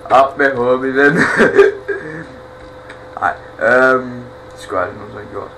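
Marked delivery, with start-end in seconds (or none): 0.1-1.2 laughing taunt. Real, not acted. Gamer mocks an enemy, laughing. 1.2-3.2 breathy laugh that rises high. Real, not acted. Gamer laughs at his own bad joke.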